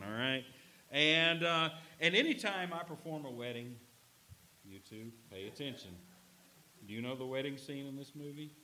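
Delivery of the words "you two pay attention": normal talking voice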